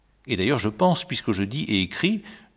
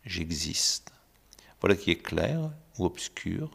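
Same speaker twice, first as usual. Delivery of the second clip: hushed secretive whisper; a hushed whisper drawing the listener in; 3 semitones lower, 5 dB quieter than usual. Acted. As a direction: breathe it like a secret. Hushed opening of the novel.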